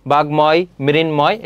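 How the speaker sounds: বাগ্ময়, মৃন্ময় with a clear m; ম fully sounded. Shown as a demonstration. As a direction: say "bag-moy, mrin-moy". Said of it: "উচ্চারণ অবিকৃত".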